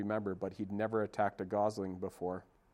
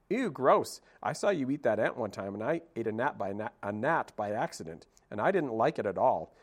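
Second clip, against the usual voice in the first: chatty squirrel. Acted. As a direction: rattle on like an excited squirrel. Squirrel chatters about food.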